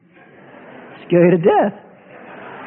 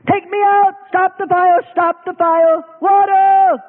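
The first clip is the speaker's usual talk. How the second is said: frantic pleading; 9 semitones higher, slower than usual. Acted. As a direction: beg to be pulled out. Believer begging.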